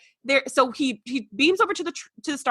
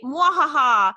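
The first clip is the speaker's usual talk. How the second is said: villain laugh; 2 semitones higher, 4 dB louder, much slower than usual. Retold or imitated. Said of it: "his whole bad guy monologue".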